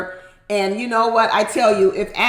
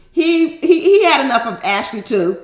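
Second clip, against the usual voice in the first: laughing; 3 semitones higher, 5 dB louder than usual. Real, not acted. Laughing while telling.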